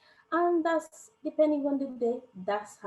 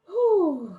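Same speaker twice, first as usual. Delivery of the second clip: a loud, much higher relieved exhale; relieved whew; 8 semitones higher, 9 dB louder than usual. Real, not acted. Mother relieved her son left safely, loud whew. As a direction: blow out a big breath of relief.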